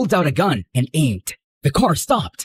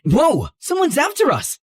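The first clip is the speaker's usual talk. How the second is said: high-pitched startled warning; alarmed cry; 10 semitones higher than usual. Acted. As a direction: shout out in sudden panic. Alarm after car is rammed.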